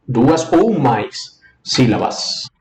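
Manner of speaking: "Duas ou mais sílabas" drawn out slowly; slow emphasis. Shown as a demonstration. ("Duas ou mais sílabas" dito devagar)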